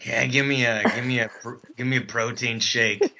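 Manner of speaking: lightly voiced ravenous morning-after date. Date waking up wants a protein shake, mock-ravenous voice. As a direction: imitate a hungry date, laughter creeping in. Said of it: "do a ravenous voice here".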